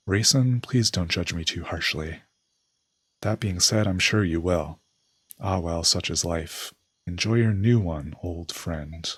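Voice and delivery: lightly acted soliloquy, lively then resigned; scheming old friend. Schemer alone, about to betray his friend, wryly resigned. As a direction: start brisk and theatrical, settle into wry resignation.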